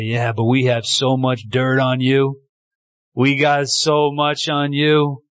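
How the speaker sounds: slow, lightly acted taunt; accusing world. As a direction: play the accuser holding dirt on someone.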